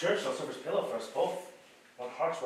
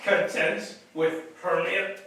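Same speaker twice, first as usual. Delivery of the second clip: slow, louder, incredulous question; scornful; 3 semitones higher, 7 dB louder, much slower than usual. Acted. Lysander dismissing Hermia to Helena, slow scornful disbelief. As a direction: scoff at the very idea.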